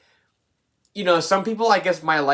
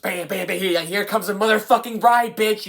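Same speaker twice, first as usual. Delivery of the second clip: mock in-your-face; 5 semitones higher than usual. Reviewer imitating the movie smacking viewers, mock in-your-face build. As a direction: imitate an aggressive movie, swelling as it goes. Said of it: "so loud and in your face".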